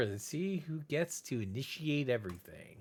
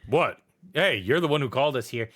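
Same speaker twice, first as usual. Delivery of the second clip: fast indignant little rat; a rat annoyed at the summoner; faster than usual. Acted. GM voices a rat.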